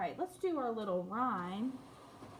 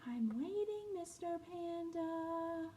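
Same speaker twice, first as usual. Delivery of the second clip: patient quiet penguin; 7 semitones higher, 7 dB quieter, slower than usual. Acted. Patient penguin, soft and slow.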